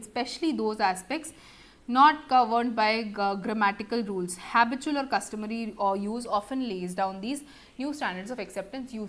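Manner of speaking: slow, measured dictation read; reading a definition. Shown as a demonstration. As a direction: read the textbook definition aloud slowly. Reads a definition slowly.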